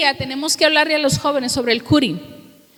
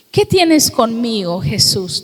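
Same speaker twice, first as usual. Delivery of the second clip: possessed man pleading; 3 semitones lower, 3 dB louder, slower than usual. Retold or imitated. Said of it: "Porque nada más él se postró".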